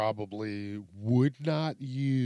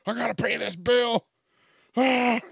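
exasperated; 10 semitones higher, 5 dB louder than usual. Pretend. Frustrated caller mocking phone menu.

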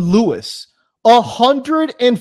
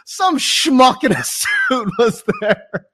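mocking quote; 6 semitones higher, slower than usual. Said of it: "you're like".

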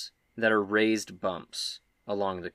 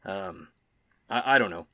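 raised, hesitant Tybor; 2 semitones higher, 6 dB louder than usual. Acted. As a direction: hem and haw nervously, pitched up. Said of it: "Tybor says".

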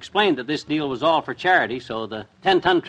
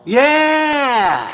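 shocked realization; 7 semitones higher, 4 dB louder than usual. Acted. Husband realizes.

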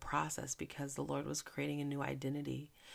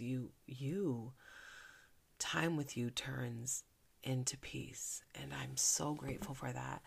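heartfelt prayer; slower than usual. Acted. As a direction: speak thanks to God gently. Praying, slow and soft.

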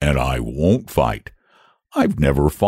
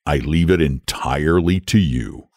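put-on low, easygoing old dragon; lazy dragon voice; 5 semitones lower than usual. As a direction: leave it all to him, idly. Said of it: "in his lazy way".

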